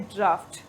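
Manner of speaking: ड्राफ्ट with an f sound for the GH; draught pronounced draft. Shown as a demonstration. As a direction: say ड्राफ्ट, rhyming with craft. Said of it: "हम इसको pronounce करते हैं ड्राफ्ट". (ड्राफ्ट, GH का उच्चारण फ़ जैसा)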